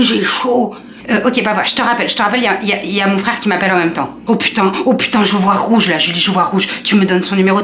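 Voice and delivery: put-on dad in a lightly done Toulouse accent, worked up. Dad on the phone with his daughter, in a light Toulouse accent. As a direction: play the southern dad, Toulouse accent, getting furious. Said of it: "faire l'accent de Toulouse".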